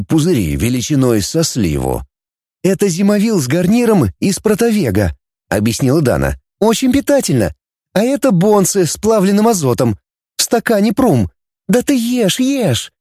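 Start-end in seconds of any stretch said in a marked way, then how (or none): 2.6-5.2 a touch higher, explaining; light girlish explaining voice; lightly voiced girl Dana. A narrator's reading. 6.6-12.9 higher, cheerful urging; girl Dana, coaxing. A narrator's reading. Dana urges him to eat.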